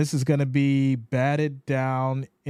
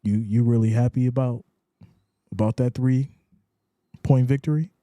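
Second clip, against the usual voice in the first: mock incredulous question; 5 semitones lower than usual. Shown as a demonstration. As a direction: tease him about the narrow win. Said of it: "you gotta say it like that".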